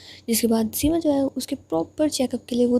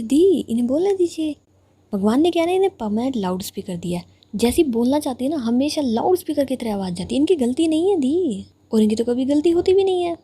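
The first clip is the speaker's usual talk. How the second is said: mocking taunt; 3 semitones higher than usual. Injured girl taunting her rival to the elder sister. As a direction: needle her rival with mock sympathy.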